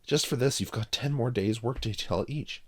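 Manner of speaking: loud angry sentence. Acted. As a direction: hand out punishment. Chip punishing.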